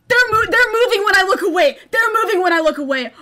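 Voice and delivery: alarmed and high; shocked realisation; startled shout. Real, not acted. Frightened discovery.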